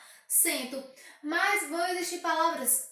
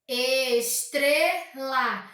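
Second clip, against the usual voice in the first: ESTRELA bem lento, ES-TRE-LA; separado em sílabas; 4 dB louder, much slower than usual. Shown as a demonstration. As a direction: diga "Estrela" em três sílabas esticadas. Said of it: "Se ela possui três sílabas". (silabado devagar, ES... TRE... LA)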